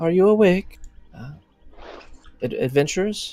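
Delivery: soft, high-pitched calling voice. Narrator voices someone at the door, on the other side, in a soft voice. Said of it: "a soft voice coming from the other side".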